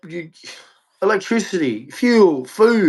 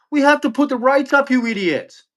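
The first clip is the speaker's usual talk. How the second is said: higher, exasperated banker scolding; a raised, scolding banker voice; mock banker lecture; 5 semitones higher than usual. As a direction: lecture the government like a fed-up banker. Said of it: "And the banks are like".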